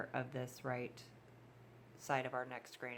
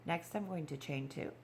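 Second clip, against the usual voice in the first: sniffly, stuffy nose; talking through a runny nose; sniffling; 4 dB quieter than usual. Real, not acted. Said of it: "I'm so sorry about all my sniffling here".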